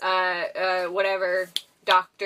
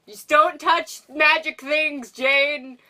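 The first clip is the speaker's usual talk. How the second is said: higher, emphatic scolding; mock scolding; 5 semitones higher, 3 dB louder, slower than usual. Fan telling Jane off, higher mock warning. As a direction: playfully warn her off.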